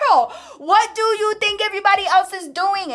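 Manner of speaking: high, laughing as she talks back. Retold or imitated. Michelle laughing off her friend's scolding, giggly and high. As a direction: giggle through the whole line. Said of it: "laughing the whole time".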